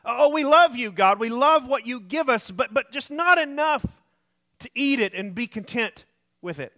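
lightly mocking believer's prayer to God. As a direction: pretend to be a believer gushing to God, then letting it drop. Mock prayer of complaining believers.

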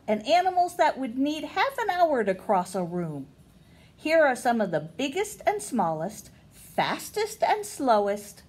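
bright read-aloud for a class; storybook narration voice; reading to children. Acted. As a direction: read the book out to young listeners. Reading picture book to kids.

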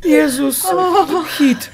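out of breath from laughing; gasping between words; hyperventilating. Real, not acted. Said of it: "Ja już nie mogę już oddychać".

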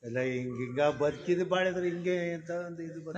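real tearful voice, struggling to explain; choked up while explaining himself; crying. Real, not acted. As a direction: speak through real tears. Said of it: "ಯಾಕೆ ಅಳ್ತಿದ್ದೀರಾ?".

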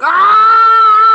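long, high, loud yell; old man's yell. Retold or imitated. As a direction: scream out like the yelling old man. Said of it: "the old man yelling".

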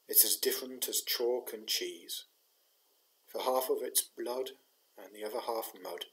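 poem reading. Acted. Chaplain reads a soldier's war poem for Remembrance, measured poem recitation. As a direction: recite it as a soldier's plain-spoken lament.

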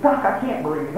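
soft, low, breathless plea; patient to doctor, soft and weak. Retold or imitated. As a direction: plead like you can't breathe. Gasping patient.

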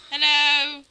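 high, loud put-on hello; mock timid calling. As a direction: call into the dark in a silly high voice. Mock calling out to lurking aliens.

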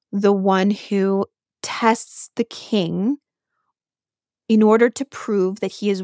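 slow hushed whisper; slow, secretive whisper on the test of the king. Acted. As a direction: breathe it like a secret. Dramatic aside about the goddess.

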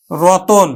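রতন said clearly with middle অ as ও; teacher models রতন with an o sound; pronunciation demo. Shown as a demonstration. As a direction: say রতন as ro-ton, drawn out. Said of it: "উচ্চারণ করলাম আমরা".

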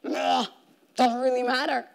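shrugging developers' indifference, lightly voiced; dismissive meh. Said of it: "thirty thousand developers saying".

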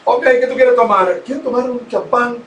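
lightly voiced flirty radio host; a hint of a smooth DJ on air; imitating radio host Tommy Melo. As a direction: play the host teasing a caller. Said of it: "lo único que decía con doble sentido era".

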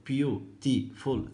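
beautiful drawn out very slowly, each syllable separate; teacher slowly counting the syllables of beautiful. Shown as a demonstration. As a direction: stretch out beautiful so every syllable is heard. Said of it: "ثلاث مقاطع صوتية".

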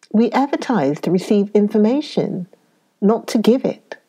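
a touch of sternness; firm, understated put-down; mildly severe reply; severely. Acted. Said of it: "said Tuppence severely".

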